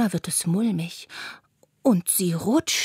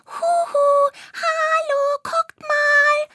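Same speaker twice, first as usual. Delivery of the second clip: much higher tiny spider voice, calling proudly; calling and waving; 3 dB louder, much slower than usual. A narrator's reading. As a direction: shout down from the top of the grass. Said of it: "ruft sie". (hohe, stolze Spinnenstimme, rufend)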